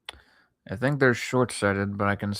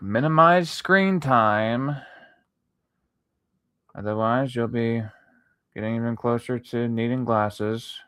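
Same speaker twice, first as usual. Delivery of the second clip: mock lecturing voice; 4 dB louder than usual. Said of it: "eye health people or whatever the fuck they're called to say".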